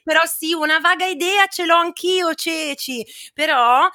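high, hammed-up presenter intro; theatrical radio-host build-up; show-host introduction. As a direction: introduce the oracle with mock grandeur. Mock-grand introduction of the astrologer.

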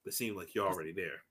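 a hint of a cold arms dealer; low cold movie line. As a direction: deliver it icy and low, almost under breath. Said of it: "he was like".

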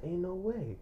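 very soft retold mutter; barely voiced disbelief; hushed disbelief. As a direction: murmur it to yourself, stunned. Quoting own stunned disbelief.

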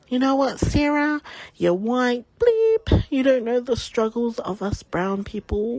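mildly heated mock rant; retold rude customer. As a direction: imitate an indignant customer. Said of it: "get hardy with her words".

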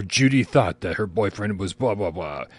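lightly voiced movie-trailer announcer; trailer narrator. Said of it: "has that guy. He just goes".

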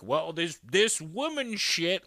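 high, slow, sulky mock whine; mock tantrum. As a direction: whine it like a spoiled husband. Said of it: "tantrumy, dramatic, selfish".

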